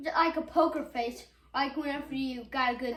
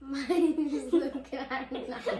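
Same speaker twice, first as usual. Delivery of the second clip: giggling. Real, not acted. Kid giggling through introduction.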